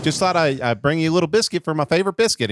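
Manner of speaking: a hint of an eager, friendly caller; folksy TV character. Ted Lasso offering a biscuit, lightly mocked chipper voice. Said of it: "imagine him just being like".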